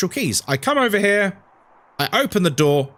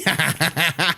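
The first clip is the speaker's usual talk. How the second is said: short real chuckling burst; laugh. Real, not acted. Streamer reacting to a trip to Turkey, laughing. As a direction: laugh at the suggestion.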